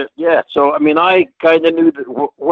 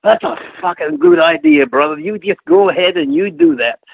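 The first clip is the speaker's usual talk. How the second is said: much higher put-on Dusty voice, excited; Dusty impression; 8 semitones higher than usual. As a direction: ham up Dusty's approval high and bright. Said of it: "he said".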